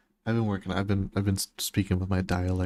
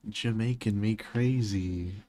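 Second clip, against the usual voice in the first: mock Jamaican pun; slower than usual. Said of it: "me trying to be funny with my words".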